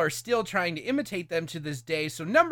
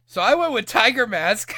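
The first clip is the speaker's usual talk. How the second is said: laughing; 7 semitones higher, 6 dB louder than usual. Real, not acted. Laughing while announcing pick.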